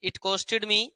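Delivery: very slow, word by word; teacher dictating a sentence; slow dictation. Shown as a demonstration. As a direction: dictate it so the class can write. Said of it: "लिखना sentence".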